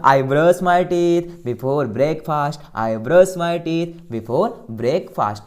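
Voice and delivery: slow classroom drill; measured model sentence for learners to echo; repeat-after-me model. Shown as a demonstration. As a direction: say it slowly, word by word, for students to follow. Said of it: "बोलना".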